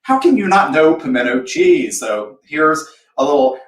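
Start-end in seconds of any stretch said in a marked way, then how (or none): 0.0-2.0 high, loud burst of disbelief; mock disbelief. To friends who never had pimento cheese, shocked. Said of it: "So I'm like".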